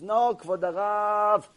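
slow, stretched-out mock plea; drawn-out protest. Crying man corrects his rabbi, drawn-out protest. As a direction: hold the last word long, as if imploring.

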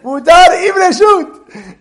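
loud, high mock shout of the sign's words. Teacher mocking the confusing sign wording, a loud mock shout. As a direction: bellow it out like a ridiculous sign.

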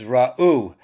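ra'u said as ra-U, with the weight on the final U; stress on last syllable. Shown as a demonstration. Teacher showing the class where the stress falls in ra'u. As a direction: lean into the end of ra'u, ra-U. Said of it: "the accent is on the last syllable".

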